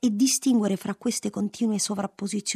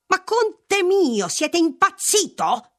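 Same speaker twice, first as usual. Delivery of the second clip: high, slow cry like wind; gusting windy whisper; 12 semitones higher, 7 dB louder, slower than usual. A narrator's reading. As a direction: howl it like a gust of wind. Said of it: "gridò pressappoco con la voce del vento". (grido come il vento)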